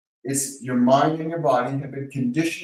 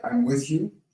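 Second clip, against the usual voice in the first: gentle, soft repeat. Shown as a demonstration. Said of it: "just repeat that gently".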